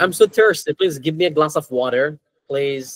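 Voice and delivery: American accent demonstration, r kept in water. Shown as a demonstration. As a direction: model American English for learners. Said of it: "they usually say".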